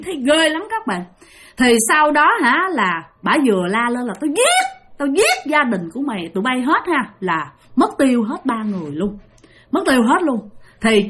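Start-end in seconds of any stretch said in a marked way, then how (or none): 4.2-7.1 shrieked ghost threat. Acted. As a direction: scream out the death threat like a ghost. (bà ma rít lên đe dọa)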